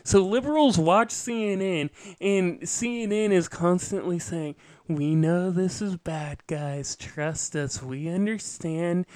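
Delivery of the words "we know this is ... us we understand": soft, placating news-pundit voice; hushed, patronizing reassurance; mock reassurance. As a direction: soothe them with mock understanding. Voicing CNN placating its viewers.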